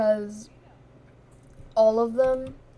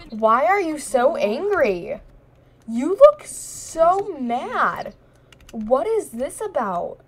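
high, slow, swooping cartoon voice; mock-concerned cartoon teasing; silly sing-song voice; 5 semitones higher, 5 dB louder, slower than usual. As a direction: tease the angry Sim in a goofy drawn-out voice. Mocking Sim's angry face, silly voice.

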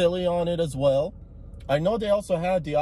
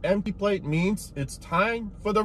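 talking while eating; chewing fries; 4 semitones higher, 5 dB quieter, slower than usual. Real, not acted. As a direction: mouth full of fries. Seen 1: Fry goes in at 4.8; chewing continues through the laugh.

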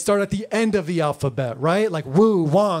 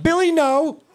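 a hint of a scolding teacher; mild mock teacher correcting a kid. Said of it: "would be like".

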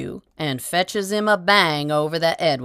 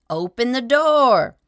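high and loud, desperate; frantic plea; 8 semitones higher, 4 dB louder than usual. A narrator's reading. Tramp shut out from the inn, high loud pleading. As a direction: hammer the words like fists on the door. Tramp still begging outside.

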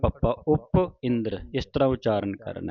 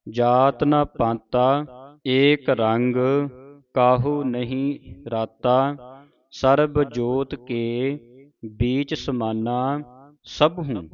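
slow, measured teaching recitation; scripture recitation; much slower than usual. Shown as a demonstration. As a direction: draw each word out for students to follow. Reads scripture for students to follow.

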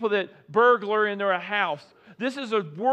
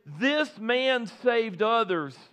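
mocking crowd; slower than usual. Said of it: "he heard the crowd say".

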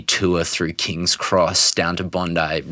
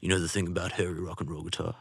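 put-on hushed whisper of an old gentleman; whispered quote; 11 dB quieter than usual. Retelling a guitarist's quote to a friend, hushed whisper. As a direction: breathe it out like a secret. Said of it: "he's like".

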